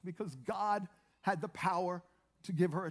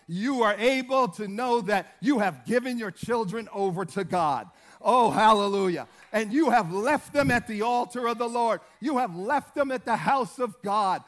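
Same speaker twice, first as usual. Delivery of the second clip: loud, emphatic sermon delivery; forceful preaching; 6 dB louder than usual. Real, not acted. Preacher urging parents to give children to God, loud and forceful. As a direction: drive each phrase home to the congregation.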